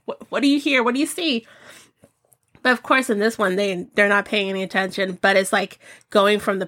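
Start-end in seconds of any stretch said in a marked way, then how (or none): 0.0-1.5 mild pet-talk voice; coaxing the dog. Retold or imitated. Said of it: "I was like".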